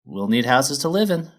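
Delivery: high, loud, cheery; chipper miner mare. Acted. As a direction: bounce in like a keen foreman. Feldspar lists demands.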